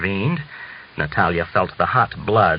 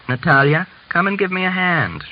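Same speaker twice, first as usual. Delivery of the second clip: calling out; 9 semitones higher than usual. A narrator's reading. Mother calling her daughter from the stove, raised call. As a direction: raise the voice to reach another room. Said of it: "she called to her daughter".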